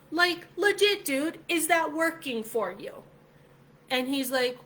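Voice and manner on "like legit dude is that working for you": pressing hard. Retold or imitated. Pressing coworker again.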